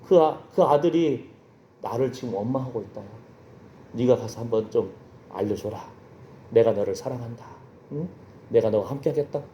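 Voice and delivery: low, soft, unhurried divine voice; voice of God. Retold or imitated. God telling the ambassador His heart, voice of God. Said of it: "하나님의 마음을 알려주시는".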